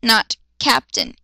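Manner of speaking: slow, calm correction; steady measured calm. Acted. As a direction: correct her calmly and slowly. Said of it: "he spoke calmly".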